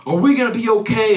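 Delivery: a hint of an anxious child creature; baby dinosaur. Baby dinosaur asking dad during meteor shower, mildly worried. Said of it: "baby dinosaur looking at the dad".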